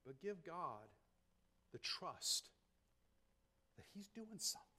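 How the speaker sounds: very soft, confidential preaching; hushed counsel. Real, not acted. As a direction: reassure them in a near-whisper. Drops to confidential counsel after proclamation.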